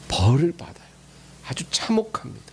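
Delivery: hushed, grave whisper to the congregation; ominous whisper. Acted. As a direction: drop to a whisper for the warning. Preacher warns of punishment.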